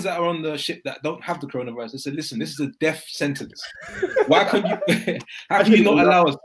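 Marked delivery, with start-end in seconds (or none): 2.1-6.4 laughing through a quote. Retold or imitated. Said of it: "You're sure you need to stop laughing?".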